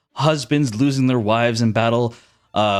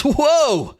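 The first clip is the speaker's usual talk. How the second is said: high-pitched, drawn-out whoa; startled soldier; 14 semitones higher than usual. Acted. Soldier turns and sees a giant, amazed. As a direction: exclaim in amazement, pitch leaping up.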